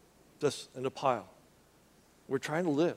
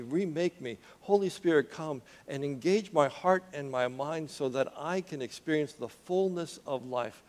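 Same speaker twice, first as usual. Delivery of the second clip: earnest prayer; 3 dB quieter than usual. Acted. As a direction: pray it quietly, calling the Spirit in. Spoken prayer to Holy Spirit.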